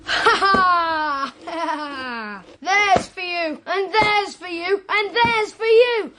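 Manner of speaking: laughing, building glee with each lash; gleeful whipping. Acted. Boy lashes his toy horse for fun: gleeful building cry. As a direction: crow with cruel delight, rising.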